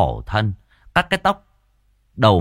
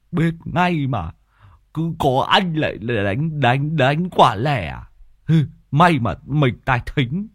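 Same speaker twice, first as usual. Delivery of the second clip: sly jealous man; 4 semitones higher than usual. Acted. Tứ Lợn catching the two sneaking off to eat. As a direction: needle them slyly, caught them out.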